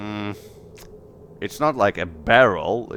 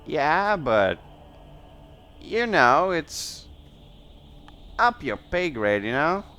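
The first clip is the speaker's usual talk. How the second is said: coy innkeeper; 5 semitones higher than usual. Acted. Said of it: "And she's like".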